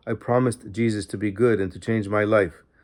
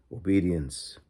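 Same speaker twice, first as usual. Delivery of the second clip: a soft low single word; calming; 3 semitones lower, 5 dB quieter, slower than usual. A narrator's reading. Guardian angel calming her fears of the devil, softly. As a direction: say it like a calm reminder. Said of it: "calmed me by saying".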